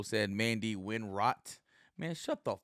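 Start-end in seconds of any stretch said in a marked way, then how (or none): 2.0-2.6 sudden higher, louder fake snap; mock angry outburst. Vlogger mock-yelling at a woman quoted in the news article, hammed-up anger. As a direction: bark it at her as a joke, hammed-up. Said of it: "No, joking".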